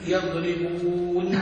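slow, stretched yaḍribūn; drawn out slowly. Shown as a demonstration. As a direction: spell out يضربون slowly, syllable by syllable. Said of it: "شوف يقول عليه".

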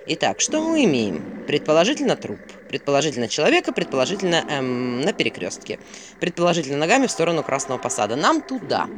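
lightly voiced owl, deliberate then brisk; pedantic owl. Owl assesses the body for Vasilisa, mildly pedantic. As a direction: sum up the evidence like a dry investigator.

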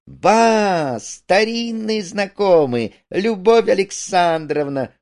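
theatrical greeting of someone just discovered; delighted surprise. Acted. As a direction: hail an old acquaintance in high-pitched surprise. Discovers acquaintance behind curtain.

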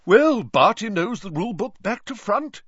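high, loud jolly Bagman; cheerful and hearty; a booming jovial official; Bagman, beaming. A narrator's reading.

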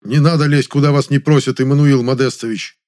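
sharp indignant reply. Acted. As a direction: tell him off, offended. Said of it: "возмущённо сказал".

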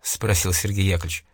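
plain reading voice

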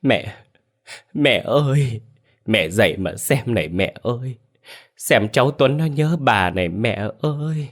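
acted mourning daughter's wail; tearful lament. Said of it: "ôm quan tài bà cụ Thơi mà mếu máo khóc".

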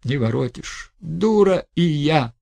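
bitter and fed up; bitter resignation. Acted. Bitter final outburst.

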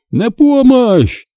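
high, slow panicked shriek; screeching for help. Acted. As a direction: squeal for rescue. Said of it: "заверещал хозяин".

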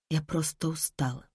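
soft, exhausted, barely audible; barely squeezed out. A narrator's reading. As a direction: force the words out with no strength left. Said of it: "еле выдавила Лиза". (еле слышно, через силу)

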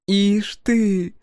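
высоко и громко, с восхищением; ахнуть от восторга; восхищённо. A narrator's reading. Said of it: "восхитилась она". (погорелица восхищённо ахает при виде древореза)

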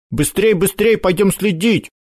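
excited. Acted. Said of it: "воскликнул он".

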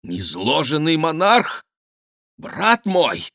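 high-pitched outraged disbelief; scandalised, voice leaping up; indignant. A narrator's reading. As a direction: cry out in shrinking indignation. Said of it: "возмутился почти скрытый темнотой король".

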